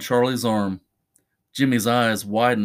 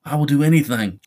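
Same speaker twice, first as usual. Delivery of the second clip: higher-pitched, mildly acted cry; 4 semitones higher, faster than usual. Charlie promises Jimmy anything, mildly crying out. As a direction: cry it out as a plea. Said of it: "Charlie cried".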